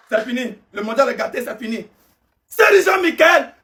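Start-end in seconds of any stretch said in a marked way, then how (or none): 2.5-3.5 indignant call-out. Real, not acted. Ranting at a selected player.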